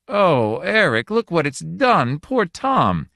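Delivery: high, loud anguished wail. A narrator's reading. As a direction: cry it out in despair. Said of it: "Pat's voice rose in a wail of anguish".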